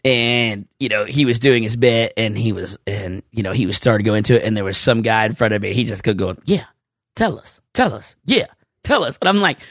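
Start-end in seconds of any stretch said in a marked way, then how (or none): 6.4-9.2 a light put-on heckler voice. Heckler calling to the comedian, lightly mimicked. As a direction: egg the comedian on, higher.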